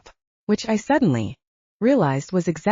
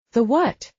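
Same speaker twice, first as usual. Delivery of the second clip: distracted, higher, mouth full; 6 semitones higher than usual. A narrator's reading. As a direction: ask while chewing a bite. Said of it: "she asked distractedly through another bite of bun".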